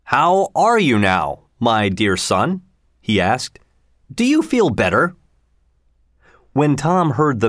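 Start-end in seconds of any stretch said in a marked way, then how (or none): 0.0-5.2 stern king. Acted. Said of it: "looked at him sternly".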